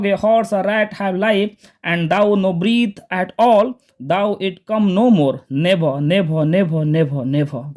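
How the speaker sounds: slow, grieving poem reading; slow reading of Lear's lament, trailing off; King Lear recitation. Shown as a demonstration. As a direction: recite slowly, fading on the nevers. Teacher reciting King Lear lines.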